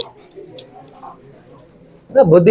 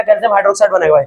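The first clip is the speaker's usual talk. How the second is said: quick rattled answer; faster than usual. Shown as a demonstration. Teacher quickly answers his own chemistry question. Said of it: "क्या बनाएगा?".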